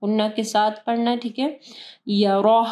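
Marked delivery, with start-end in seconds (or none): 2.1-2.6 यरा with rounded "roh" and audible final h; यरा ending full and breathed; heavy Ra. Shown as a demonstration. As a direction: say यरा as "yaroh", R thick. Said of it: "रा को heavy पढ़ना है".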